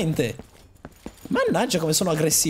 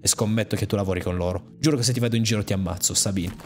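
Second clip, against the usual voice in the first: low, grim telling of a massacre; lightly voiced angry woman recounting loss; bitter survivor; 7 semitones lower than usual. Player voicing the woman telling of her gang's slaughter, grim.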